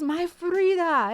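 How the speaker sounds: loud, high, stretched-out proclamation; slow, grand imitated exclamation; retold delighted greeting. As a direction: imitate a director hailing his discovery. Imitates director greeting his Frida.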